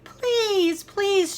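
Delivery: high, loud wailing please; loud begging shout. Acted. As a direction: scream the begging like cubs in a tantrum. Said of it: "shouted the cubs so loudly".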